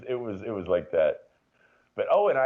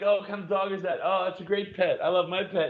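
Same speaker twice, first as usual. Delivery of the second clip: 1 mock chirpy neighbor; 7 semitones higher, 4 dB louder than usual. Imagined neighbor chat.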